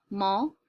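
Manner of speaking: "multiply" in three pieces with long pauses, MUL... TI... PLY; broken by syllable. Shown as a demonstration. Teacher shows where the slashes go, "multiply" split by long gaps. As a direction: stop at each slash in "multiply". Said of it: "So I wrote a slash here".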